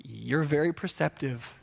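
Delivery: understated deadpan; mildly sardonic; dry comeback. Retold or imitated. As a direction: answer the rant with calm, dry irony.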